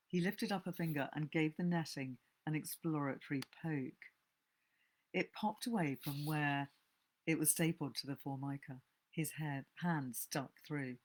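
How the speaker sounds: steady reading of a thriller, a little hushed; story narration. A narrator's reading. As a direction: read the tale aloud as a narrator, drawing listeners in. Reads a novel aloud.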